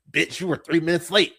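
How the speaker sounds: lightly mocking impression of a mean boss; cartoonishly evil boss. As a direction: imitate a cartoon villain boss telling off staff. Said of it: "this is so cartoonishly evil".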